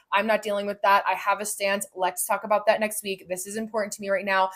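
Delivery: firm, even declarations; decisive. Shown as a demonstration. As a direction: take a clear stance, no wavering. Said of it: "how the vocal tone changes".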